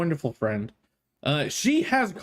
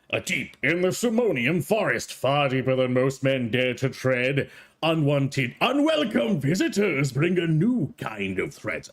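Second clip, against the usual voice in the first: lightly voiced epic trailer narration; trailer narrator; 3 semitones lower than usual. Shown as a demonstration. Streamer reading the trailer lines instead of playing it, mock epic. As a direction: read it like a movie trailer voice. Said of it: "How about I read it".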